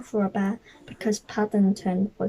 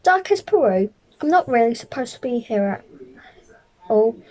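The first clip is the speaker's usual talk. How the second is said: lightly voiced small bear; a hint of a polite little bear; 4 dB louder than usual.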